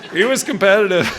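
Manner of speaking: real laughter carrying the words; laughing. Real, not acted. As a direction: still cracking up. Still laughing after story.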